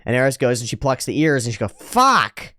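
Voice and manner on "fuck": sharp frustrated curse. Retold or imitated. Eris swearing at the mess.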